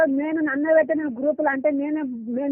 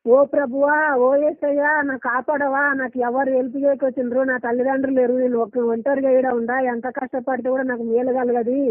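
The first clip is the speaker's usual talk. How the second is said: pleading prayer. Shown as a demonstration. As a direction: call out to Jesus for help, begging. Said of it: "ఎలా చేసినావు ప్రార్థన నాకు కొంచెం చెప్తావా".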